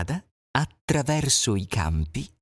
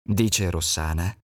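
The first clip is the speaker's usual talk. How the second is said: sly fox; 2 semitones higher than usual. Acted. Fox calling to passing animals, sweet. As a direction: greet them with sugary charm.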